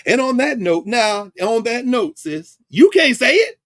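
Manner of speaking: hammed-up vice president cutting in; mock vice president. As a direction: shush her like an embarrassed VP. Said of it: "the vice president was like".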